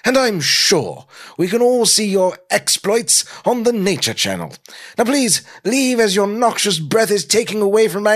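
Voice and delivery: put-on high, haughty British accent, swelling grandly; snobbish British. Norman shooing the caveman from his coffee, snobbish British accent. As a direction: dismiss him like a snooty British gentleman. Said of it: "in a snobbish British accent".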